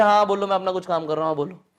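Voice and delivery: quick, careless yes-yes; half-listening, rushing through it; busy brush-off. Shown as a demonstration. Teacher mimicking a busy listener, hurried. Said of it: "ताकि इस तरीके से".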